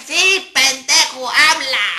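high, loud, drawn-out crowd yell; crowd shouting back. Retold or imitated. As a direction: bellow it like a rowdy audience.

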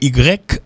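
"Y" said as "i grèk", ee sound first; rejected pronunciation. Retold or imitated. Teacher quotes people's mistaken correction, "Y" as ee-grek. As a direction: say "Y" as ee-grek with hard k. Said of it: "Non, c'est U".

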